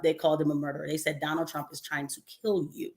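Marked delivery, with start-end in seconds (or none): 1.2-2.9 mock ominous report. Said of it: "Literally, that's how they said it".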